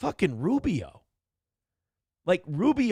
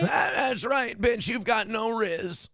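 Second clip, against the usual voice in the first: cheering shout; 6 semitones higher, slower than usual. Real, not acted. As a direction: yell it like you're ringside. Cheering on RFK in clip.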